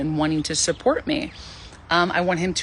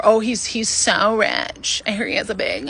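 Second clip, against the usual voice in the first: gossipy friend; 3 semitones higher than usual. Retold or imitated. Friends pitching a rich date.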